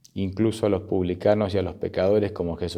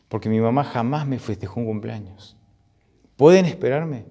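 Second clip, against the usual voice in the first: mildly acted tearful plea; 3 semitones higher than usual. Birthday girl asks guests to wait for her mother, mildly tearful. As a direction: plead haltingly, understated emotion. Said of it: "Y la chica llorando dice".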